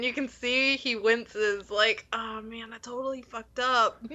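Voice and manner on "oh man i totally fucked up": mock wince. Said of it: "And he's like".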